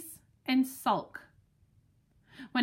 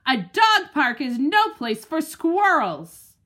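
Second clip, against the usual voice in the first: barked warning; 5 dB louder than usual. Acted. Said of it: "I bark".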